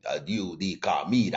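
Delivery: a faint hint of a Russian accent. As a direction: imitate the Russian driver asking, lightly. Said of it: "one of them strong Russian".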